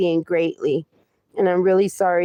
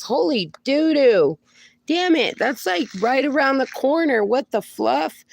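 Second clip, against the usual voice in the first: higher-pitched real dismay; alarmed, pitched-up outburst; shocked exclamation; 6 semitones higher than usual. Real, not acted. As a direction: exclaim it in startled disbelief. Shocked by twenty-year forecast.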